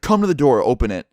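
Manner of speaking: imitating a man yelling orders; mock yell. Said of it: "Everything this dude said was just a straight up scream".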